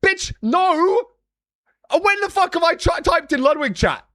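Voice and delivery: hammed-up offended shout; retold indignant reply. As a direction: snap back at the guy like he's insane. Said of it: "I'm like".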